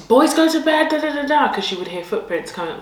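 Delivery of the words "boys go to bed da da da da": higher, louder call up the stairs; calling grandma. Retold or imitated. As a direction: call the boys to bed like grandma. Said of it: "my grandma would be like".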